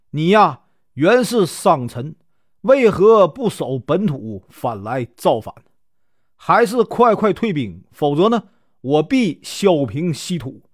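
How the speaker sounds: a touch of a commanding general's bark; stern rebuke. Acted. Enemy general rebukes the rebel leader at the front, mildly stern. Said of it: "孔宣大喝道".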